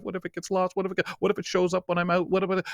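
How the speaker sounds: half-joking nervous rush; mock panic. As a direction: rattle off the worries in a mock panic. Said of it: "without the panic of".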